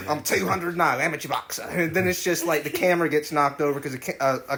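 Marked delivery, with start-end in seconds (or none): 0.1-1.6 Australian amateur boxer character; comic boast in an Australian accent; Jack Kerouac. Acted. Boxer telling the camera about himself, Australian accent. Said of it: "I thought of the character".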